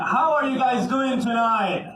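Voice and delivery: stretched, rousing crowd call. Shown as a demonstration. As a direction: pump up the crowd's answer. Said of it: "I'm gonna ask again".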